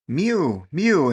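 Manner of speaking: lightly mewed like a cat; cat mewing. A narrator's reading. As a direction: plead like a hungry cat. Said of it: "interrupted Simpkin".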